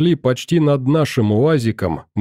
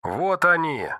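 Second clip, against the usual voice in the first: sudden higher call over radio; radio shout; 4 semitones higher, 5 dB quieter than usual. Acted. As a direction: blurt it through the radio. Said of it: "Взорвалась рация голосом третьего".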